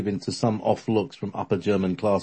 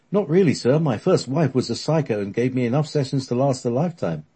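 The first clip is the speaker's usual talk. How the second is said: character voice; 5 semitones higher than usual. Acted. Alfred's joke in character.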